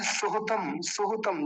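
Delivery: सुहतम with both u vowels kept short, "suhutam"; brief, light u sounds in सुहतम; short quick vowels. Shown as a demonstration. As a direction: say सुहतम without lengthening either u. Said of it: "जल्दी बोला जाएगा".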